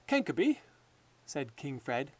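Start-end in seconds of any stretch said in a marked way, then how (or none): 0.1-0.6 high, louder call across the room. Acted. King Fred calling his footman by name, raised call. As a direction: summon the servant.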